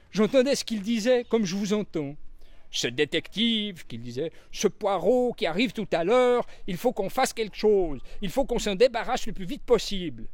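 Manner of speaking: high, timid little maid's voice; young maid. A narrator's reading. Annie the young maid explaining herself to Poirot, high and timid. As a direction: speak up shyly but earnestly.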